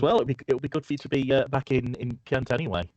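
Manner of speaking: cheery encouragement; lightly voiced Marion. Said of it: "she says".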